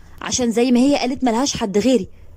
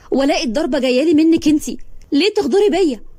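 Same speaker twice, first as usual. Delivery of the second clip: hurt outburst; 4 semitones higher than usual. Acted. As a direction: accuse her sister, voice rising. Sister confronts betrayal, rising anguish.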